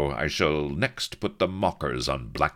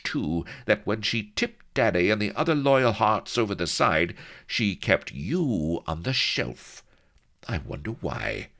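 higher, pointed accusation, slowing at the end; suspicious lady; 7 semitones higher, 3 dB louder than usual. A narrator's reading. Vanity accusing the captain.

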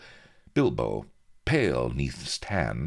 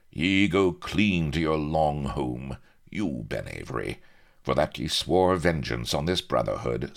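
pirate captain voice; 3 semitones higher than usual. Acted. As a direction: pronounce sentence like a pirate. Pirate captain pronounces sentence.

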